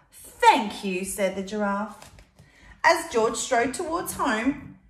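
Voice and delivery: put-on lively read-aloud to a child; storybook reading voice; story narration. A narrator's reading. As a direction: tell it like a picture book. Reading picture book aloud.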